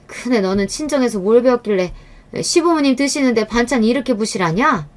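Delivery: mother-in-law comparing the two daughters-in-law, sneering; sniping mother-in-law. Acted.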